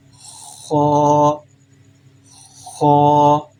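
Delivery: Ho made heavy from the upper throat, full mouth. Shown as a demonstration. Teacher demonstrating the heavy letter to students: full-mouthed Ho. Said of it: "a heavy sound, full of mouth".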